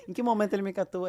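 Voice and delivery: high-pitched puzzled repeat; mock incredulous question; astonished inner thought. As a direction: replay the bewilderment for comic effect.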